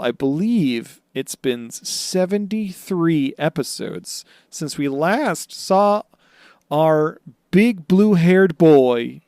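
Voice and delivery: slow, high mock-grand announcement; a hint of a showman; announcer voice. Grand intro of Buggy.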